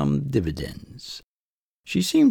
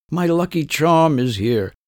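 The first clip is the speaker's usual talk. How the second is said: higher, louder and slow, a mock triumphant call; proud yell; 7 semitones higher, 5 dB louder than usual. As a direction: announce it to the whole room like a diva. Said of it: "turns to the others and yells".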